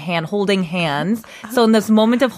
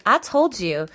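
sassy boss. Retold or imitated. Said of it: "she's kinda being like".

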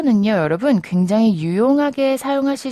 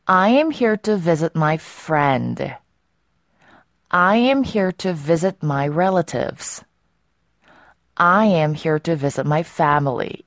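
slow example sentences; much slower than usual. Shown as a demonstration. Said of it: "자, 그러면".

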